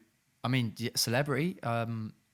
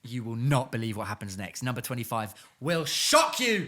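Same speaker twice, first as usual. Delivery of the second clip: clickbait video narrator; 4 semitones lower than usual. Acted. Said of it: "clickbait teaser lines".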